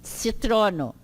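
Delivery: "Citrono" beginning with ts, as tsi-TRO-no; "Citrono" with C sounded like pizza's zz. Shown as a demonstration. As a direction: model "Citrono" for the class with a ts onset. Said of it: "ele tem essa pronúncia do tse".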